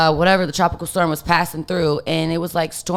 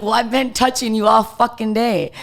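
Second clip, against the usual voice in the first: higher, louder, mock-indignant comeback; exasperated retort; 5 semitones higher, 4 dB louder than usual. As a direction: throw it back at him, half laughing at the absurdity. Her exasperated reply to assistant.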